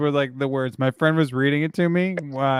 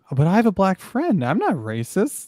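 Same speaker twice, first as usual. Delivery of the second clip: mock protest, pitched up at both ends; defensive excuse imitation; 6 semitones higher than usual. Co-host mocking Charles's denial of racism, mock defensive. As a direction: imitate a lame excuse, breaking into a laugh. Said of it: "Did he really just do, like, the".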